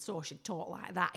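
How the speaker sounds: lightly imitated Rochdale accent; mimicking a Rochdale speaker, mildly; strong Rochdale accent. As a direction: put on a hint of broad Rochdale. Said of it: "she has an incredibly strong accent".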